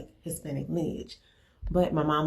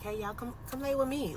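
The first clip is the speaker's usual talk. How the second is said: high, softer motherly coaxing; coaxing the kids; 7 semitones higher, 5 dB quieter than usual. Retold or imitated. Mother calls her kids close when spooked, coaxing. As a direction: lightly act out gathering your children close.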